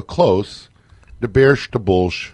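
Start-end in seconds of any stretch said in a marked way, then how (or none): 1.2-2.3 slow Chicago "the Bears, the Bulls"; drawn-out Chicago superfan chant; Chicago accent. Shown as a demonstration. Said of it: "she's almost got Chicago down".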